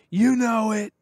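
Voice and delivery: high, put-on teasing voice; smug prank caller. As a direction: taunt him in a silly high voice. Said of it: "I just kept saying".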